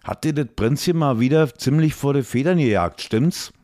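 high, fast mocking dwarf; a teasing chained dwarf. A narrator's reading. Gruff dwarf in the kitchen.

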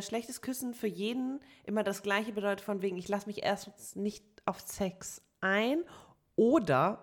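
slurring the words, tongue tripping; mumbled, slurred words; slurred speech. Real, not acted. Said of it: "jetzt hab ich richtig gelallt".

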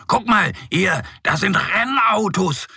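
words tumbling out, a touch eager; little bear shows off race cars, mildly bubbly; bubbling over. A narrator's reading. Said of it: "sprudelt es aus Mo heraus".

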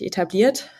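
"etabliert" given deliberate emphasis; stress on etabliert. Real, not acted. Guest clarifying which cryptocurrencies count, emphasis on "etabliert". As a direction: underline the word "etabliert". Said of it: "ich betone jetzt wirklich".

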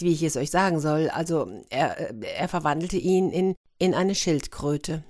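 halting, with fillers and pauses; hesitant confession. Acted. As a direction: struggle to get the dreadful news out. Princess struggles to tell awful news. (zögernd, stockend)

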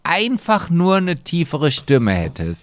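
lightly mock the people swooning over him; mocking admirer voice. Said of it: "die sagen auch immer".

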